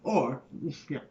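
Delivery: put-on stage monologue in a New York accent; New York accent, nervous writer addressing an audience. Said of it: "Shall we get on with the accent?".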